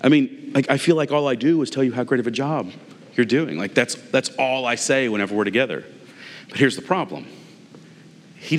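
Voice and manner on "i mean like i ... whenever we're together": higher, incredulous retort; raised, exasperated what-are-you-talking-about; exasperated disbelief. Retold or imitated. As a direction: say it like you can't believe your ears. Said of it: "I was like".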